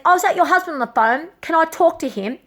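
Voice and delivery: high, sweet fake-friendly voice; sugary social worker.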